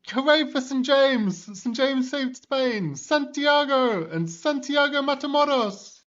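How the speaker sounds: high, slow, drawn-out victory cheer; a hammed-up crowd chant for the saint; crowd shouting. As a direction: cheer him like a whole triumphant army. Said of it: "the Christians are all shouting".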